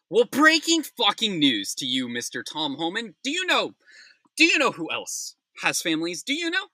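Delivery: high, loud outraged demand; furious rant. Real, not acted. Ranting at Tom Homan on air, furious. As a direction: hurl the question at him in disbelief.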